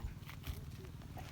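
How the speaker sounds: sneezing. Real, not acted. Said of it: "sneeze, forgive me".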